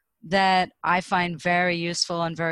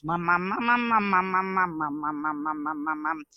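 playing with pitch. Shown as a demonstration. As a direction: hum mum, mum through the pitch range. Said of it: "and play with pitch".

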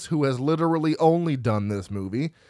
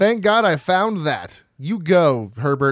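mock cheer; 3 semitones higher, 5 dB louder, slower than usual.

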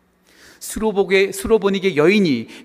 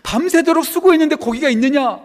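high, raised question to tired fishermen; worried calling; 10 semitones higher, 6 dB louder than usual. Acted. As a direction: call out in earnest concern. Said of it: "그들의 걱정을 하고 있는 거예요". (걱정하며 높여 묻듯)

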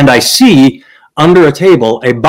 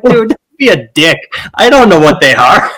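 indignant retort; 5 semitones higher than usual. Retold or imitated. Retold retort to the father.

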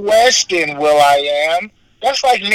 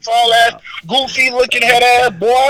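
excited roasting; 8 semitones higher than usual. Real, not acted. Roast insults, raised voice.

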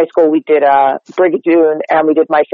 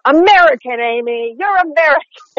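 retold hallway shout; 10 semitones higher than usual. Schoolmates teasing their friend in the hallway, mock shout. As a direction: imitate teasing friends calling out, pitched high. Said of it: "they'd just shout".

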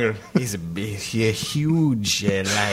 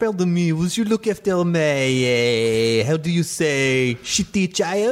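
put-on light Australian accent, pitched a bit higher; a mock Australian mum asking a favour in an Australian accent; 3 semitones higher, slower than usual. Mother asks stranger to mind her child, Australian accent. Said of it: "you can do the Australian accent".

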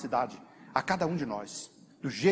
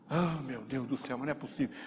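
exasperated sigh; 3 semitones lower, 7 dB quieter than usual. Retold or imitated. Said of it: "Aí você diz".

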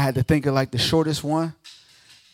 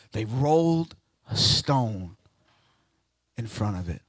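hushed and dropping; 8 semitones lower, 5 dB quieter than usual. Acted. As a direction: fade to near silence on the stone. Repeated hushed.

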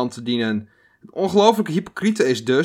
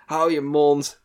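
irritated hou je mond; 3 semitones higher, slower than usual. Retold or imitated. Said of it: "Dat ik van, ja".

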